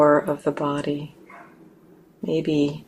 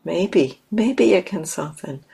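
tentative, lilting suggestion, pitched up; gentle invitation; 4 semitones higher than usual. Shown as a demonstration. Meditation teacher shows invitation rather than demand, gently tentative. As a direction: offer it lightly as a possibility. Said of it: "With that kind of invitation, ... rather than kind of a demand".

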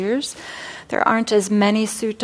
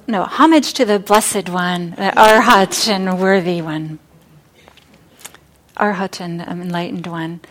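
loud, fervent praise, corrected mid-breath; loud devout exclamation; 6 dB louder than usual. Acted. Wife tripping, crying out homage loudly. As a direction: cries out her praise as she stumbles. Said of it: "she says".

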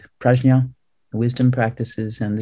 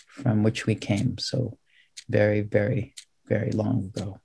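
unhurried meditation guidance with long pauses; calm, measured meditation teacher; guided meditation. Real, not acted. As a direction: ease them into the posture, phrase by phrase. Leads seated guided meditation.

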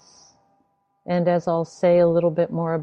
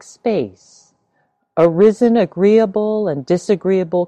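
measured, emphatic recitation of a sutta; solemnly quoting a teacher's instruction; scripture reading; 3 dB louder than usual. Acted. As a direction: read the teaching out firmly, phrase by phrase. Reads a sutta quote aloud.

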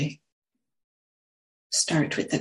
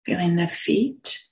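unhurried meditation guidance, long silences between phrases; guided meditation; slower than usual. Real, not acted. Teacher settling a group into sitting posture, guided meditation. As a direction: guide them gently into the sit, phrase by phrase.

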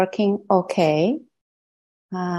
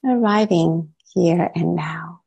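measured guided-meditation voice with long pauses. Real, not acted. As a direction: gently lead listeners inward, leaving long silences between phrases. Leads a meditation.

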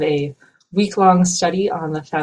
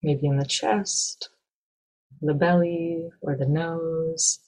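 calm, measured meditation guide with long pauses; guided meditation. Acted. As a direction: guide listeners gently, leaving space between phrases.

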